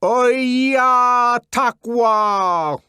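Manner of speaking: very loud, slow, high curse; furious shout from inside. A narrator's reading. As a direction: spit out the curse. Angry curse shouted through door.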